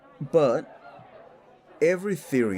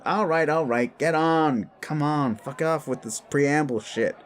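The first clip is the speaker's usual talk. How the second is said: higher, irritated cut-in; impatient interruption; 6 semitones higher than usual. Acted. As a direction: cut them off, fed up with waiting. Impatient listener cuts off the explanation.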